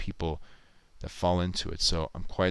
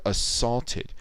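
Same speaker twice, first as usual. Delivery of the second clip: "assaulted" with the second syllable stressed; 4 semitones higher than usual. Shown as a demonstration. Streamer explaining a splice to viewers, "assaulted" stressed on second syllable. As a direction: lean on the "sault" in "assaulted". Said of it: "that second syllable gets the emphasis".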